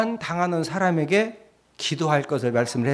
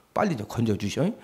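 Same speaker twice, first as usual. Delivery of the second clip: soft, low, pleading rescue call; Peter pleading; 6 semitones lower, 8 dB quieter than usual. Retold or imitated. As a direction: plead quietly as if sinking. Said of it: "이랬어요". (낮고 작게 건져달라 애원)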